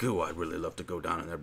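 mock wife's thought. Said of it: "was like".

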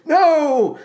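high-pitched, hammed-up cry of refusal; Geronicus. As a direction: refuse in a high old-crank voice. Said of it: "Geronicus is essentially saying to him".

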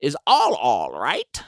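put-on high, questioning old lady; confused old neighbor. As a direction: squeak up on the name. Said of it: "she's like".

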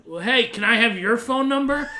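laughing retold ask. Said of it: "And he goes".

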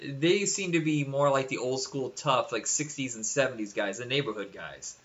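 slight New York accent slipping in. Real, not acted. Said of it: "I accidentally did a New York accent".

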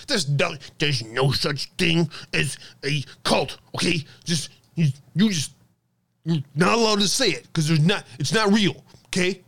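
a sneering dismissive put-on, barely off his own voice; a hint of a whiny scold brushing off a cult; mock Mike Rothschild. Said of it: "I do my best Mike Rothschild impression".

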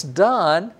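"Don" with an open ah as in father; Hebrew Don. Shown as a demonstration. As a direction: say "Don" with a broad ah. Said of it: "the A is pronounced like the A in father".

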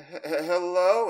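high, halting, drawn-out call; little girl voice. Retold or imitated. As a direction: stammer into a loud rising hello. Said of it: "and I hear the".

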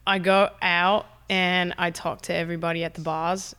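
lightly put-on Australian accent. Shown as a demonstration. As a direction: chat in a practised Australian accent. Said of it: "working on my Australian accent".

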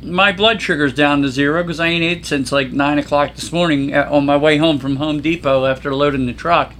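talking while eating crackers; mouth full. Real, not acted. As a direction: chew and talk through a mouthful. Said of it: "I'm doing a Lou Mangel. I'm eating some cheese and crackers".

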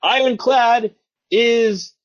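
high, slow dramatic announcer. Pretend. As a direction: draw it out like a trailer. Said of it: "let me go and quote".

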